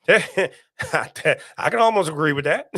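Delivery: slow, amused chuckle through it; laughing. Real, not acted. Streamer answering a viewer's snake joke, laughing slowly. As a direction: laugh and half concede.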